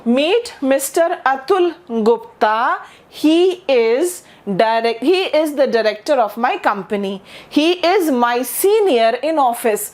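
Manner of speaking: very slow, careful English; teacher modelling a formal introduction slowly; slow model introduction. Shown as a demonstration. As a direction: draw each phrase out slowly. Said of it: "यहाँ पर आप mister लगाइए".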